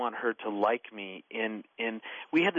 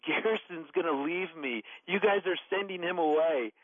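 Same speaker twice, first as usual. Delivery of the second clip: high, mock-upset little girl; retold crying child; 6 semitones higher than usual. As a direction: lightly imitate a tearful child's protest, pitched high. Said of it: "and she's crying".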